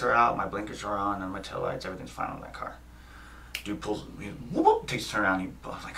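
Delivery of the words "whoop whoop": quick mimicked police whoop; imitated siren whoop. Driver retelling the cop's turnaround, imitated siren whoop. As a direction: whoop like a squad car siren.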